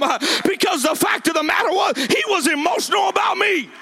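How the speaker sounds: high, driving sermon climax; impassioned preaching. Real, not acted. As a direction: preach with rising fervor, punching each phrase. Preaching at full force.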